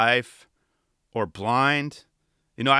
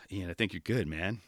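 relieved sigh; 6 semitones lower, 11 dB quieter than usual. Retold or imitated. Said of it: "I was like".

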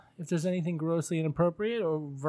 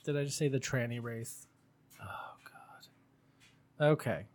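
whispering; 2 semitones lower, 5 dB quieter than usual. Real, not acted. Shocked at his old words.

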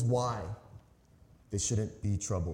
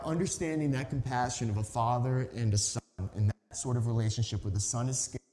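normal talking voice

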